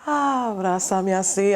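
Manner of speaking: so tender. Retold or imitated. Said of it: "so tender".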